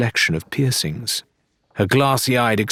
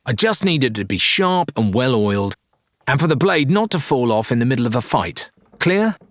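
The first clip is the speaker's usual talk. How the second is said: firm; 4 semitones higher than usual. Acted. Lorena lays down terms.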